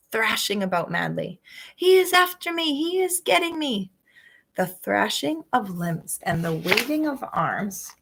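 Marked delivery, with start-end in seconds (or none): 1.8-3.9 high, frantic cry of fear; panicked plea in a nightmare; terrified giant. A narrator's reading.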